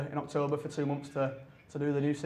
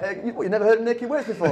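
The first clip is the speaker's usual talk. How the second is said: louder, higher retold incredulous question; mock disbelief; 7 semitones higher, 6 dB louder, faster than usual. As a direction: act out being taken aback. Acting out his reaction at Hogwarts.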